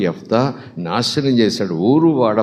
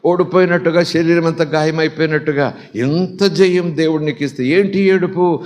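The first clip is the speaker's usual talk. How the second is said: lightly acted daughter, pitched higher; puzzled daughter pressing her father, raised pitch; mild acted bewilderment in a higher voice; daughter's questioning; 5 semitones higher than usual.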